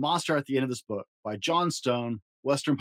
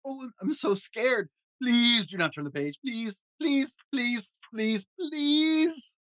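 high, frantic pleading that climbs; shaky nervous falsetto; 10 semitones higher, slower than usual. Acted. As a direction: beg in a panicky squeak. Grover begs, terrified.

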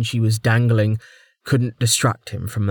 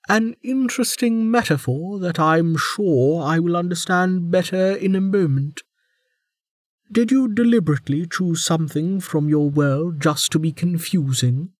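higher, sardonic warden; prison guard; 8 semitones higher than usual. A narrator's reading. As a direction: needle him with dry sarcasm.

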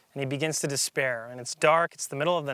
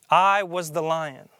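lion's voice; 5 dB louder than usual. Acted. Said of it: "the voice continued".

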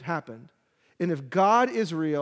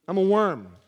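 miserable self-pity; 5 dB louder than usual. Acted. Repeats worm line, different timbre.

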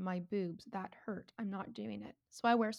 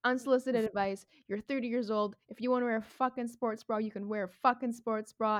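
mock outrage; 6 dB louder than usual. Friend's outraged reply quoted.

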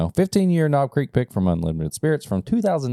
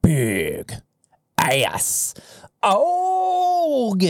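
drawn-out hype call soaring high; playful over-the-top month reveal; hyped-up announcement; 13 semitones higher, much slower than usual. Pretend. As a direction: stretch each word and wail the last one.

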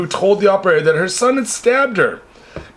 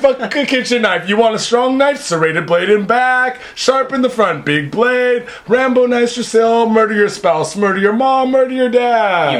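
a hammed-up street hawker pitch; mock knife salesman; 3 semitones higher than usual. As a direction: sell Rambo knives like a pushy vendor.

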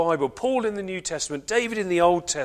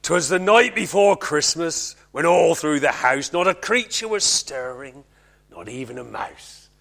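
put-on lightly done West Country accent; 3 semitones lower, 4 dB louder than usual. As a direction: recite it with a West Country lilt. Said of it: "in a West Country accent".

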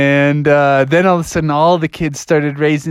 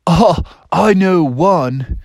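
slow, drawn-out, higher voice; laid-back pupil Bill; 4 semitones higher, much slower than usual. Acted. Bill answers the teacher, slow drawn-out voice. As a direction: stretch each word lazily. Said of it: "He said".

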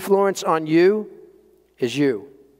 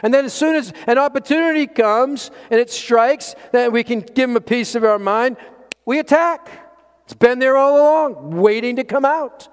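high-pitched, mounting intensity; heated preaching build-up; 7 semitones higher than usual. Real, not acted. Preacher describing stewing anger breaking out, heated and high. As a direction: build in a raised pitch towards the attack.

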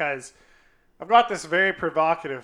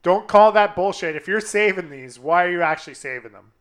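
loud, firm scolding; retold angry retort; 7 dB louder than usual. Confronting the girl about saving the snaps, loud scolding. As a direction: call her out sharply. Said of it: "And I said".

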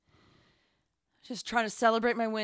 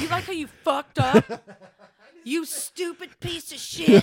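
swearing tirade; 5 semitones higher, 7 dB louder than usual. Pretend. Mock rant at listeners.

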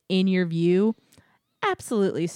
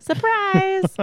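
high, loud playful surprise; excited surprise shout; 12 semitones higher, 6 dB louder than usual. Retold or imitated. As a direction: shout it like a party reveal. Park announcing surprise, mock quote.

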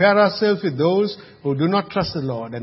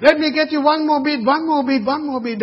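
higher, fast auctioneer sales patter; 10 semitones higher than usual. Retold or imitated. Preacher imitating auctioneer at a house sale down the road, higher fast patter. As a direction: hawk for one more bid like an auctioneer. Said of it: "the auctioneer is going".

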